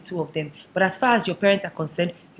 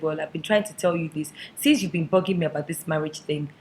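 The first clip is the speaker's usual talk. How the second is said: earnest confession; 3 semitones lower than usual. Acted. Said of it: "They sat their mothers down and said".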